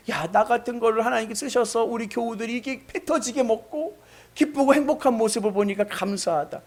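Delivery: normal talking voice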